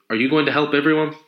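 put-on high, quick child's question; little girl. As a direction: blurt it out like an eager kid.

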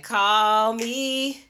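loud jingle announcer voice; radio ad voice. Retold or imitated. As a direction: belt it like a radio ad. Imitates a jingle line.

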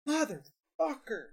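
high, drawn-out mock curse; imitated pissed-off swearing. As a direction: stretch the curse out, exasperated, as if overheard by phone. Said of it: "gets all pissed off".

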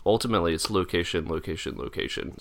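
lightly voiced realtor pitch, trailing to a whisper; real estate agent. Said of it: "best impression of a real estate agent".

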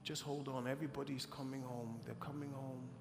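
hushed, softly voiced retelling; retold whisper. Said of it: "she whispered into my grandma's ear".

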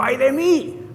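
restrained retold outcry; retold cry. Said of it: "Por eso Isaías gritó".

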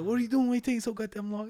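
hammed-up impatient father; mock angry dad. Dad scolding for slowness.

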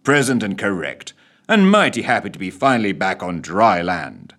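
a hint of a cheery sailor; lightly voiced, upbeat and chipper; cheery tones. Smith reporting happily back on dry land, mildly cheery. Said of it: "in his unnervingly cheery tones".

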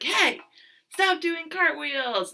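high-pitched, drawn-out mock yell; retold yell. Pitcher to friend in the outfield, high mock yell. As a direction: holler it like an annoyed kid, imitated. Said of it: "yelling back and forth at each other".

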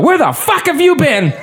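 high, laughing mock yell from the front door; imitating his mom. Mom at the front door calling out to Steven, high laughing mock yell. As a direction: squeal it out like an exasperated mom, laughing. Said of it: "And his mom steps out".

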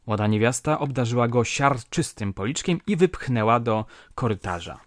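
ordinary delivery, nothing marked

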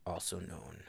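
whispered secret. Acted. Harry revealing himself to the couple, whispered secret.

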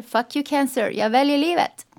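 rallying motto, pitch and volume climbing; defiant. Retold or imitated. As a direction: tell the illness off, building to a triumphant finish. Her defiant motto to cancer.

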